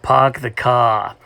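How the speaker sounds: "pock the car" with no R sounds; dropped R. Shown as a demonstration. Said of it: "dropping that R sound".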